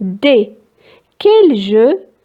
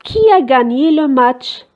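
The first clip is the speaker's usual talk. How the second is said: very slow question read out; teacher reading the third sentence slowly; slow dictation; 2 semitones higher, much slower than usual. Shown as a demonstration. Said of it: "الجملة الثالثة".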